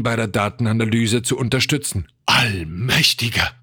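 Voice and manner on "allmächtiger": slow, drawn-out shock; stunned stammer. A narrator's reading. George aghast at the readings, stunned. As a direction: stretch the word out, aghast. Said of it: "stammelte George".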